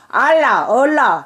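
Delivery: Gyeongsang accent on each word; Gyeongsang dialect. Shown as a demonstration. Mother compares baby words, Gyeongsang dialect. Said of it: "우리 경상도에서도".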